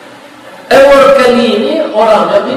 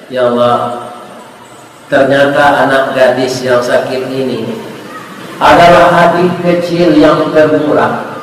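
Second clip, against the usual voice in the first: low, hushed plea to God; understated tearful storytelling prayer; heartfelt prayer; 7 semitones lower than usual. Acted. Doctor's tearful prayer, retold.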